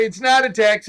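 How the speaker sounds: dry, sarcastic jab. Acted. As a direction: say it with a sarcastic edge. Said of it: "if I say that sarcastically".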